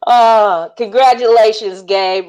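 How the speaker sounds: high, loud, hammed-up Australian bloke; over-the-top Australian accent, cheers in the air; mock Aussie accent. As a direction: ham up a cheeky Aussie mate cheering the winner. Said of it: "all the way down under from Aussie".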